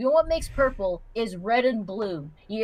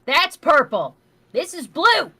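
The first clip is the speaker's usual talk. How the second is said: exasperated insisting; 3 semitones higher, 8 dB louder, slower than usual. Real, not acted.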